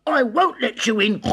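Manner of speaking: very high, loud piggy squeal; squeaky little pig. A narrator's reading. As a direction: squeal it out defiantly. Pig refuses the wolf.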